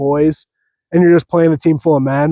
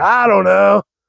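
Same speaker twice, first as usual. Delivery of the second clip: put-on drunk girl voice, much slower; 3 semitones higher than usual. Retelling what a drunk girl said, imitating a drunk girl. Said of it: "said it in such like a drunk".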